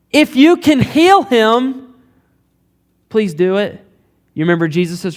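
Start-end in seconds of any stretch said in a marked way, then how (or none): 0.1-3.8 high, drawn-out plea, easing on the last words; pleading father. Retold or imitated. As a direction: implore him slowly for help, voice raised. Retelling father's desperate plea to Jesus.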